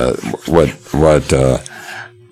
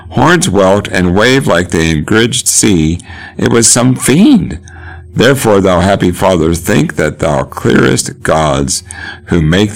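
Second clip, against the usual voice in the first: higher, slow declaiming of a fiend sighted on the cliff; dramatic Shakespeare reading; 4 semitones higher than usual. Acted. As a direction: paint the monster with big, drawn-out words. Teacher performs Edgar's speech.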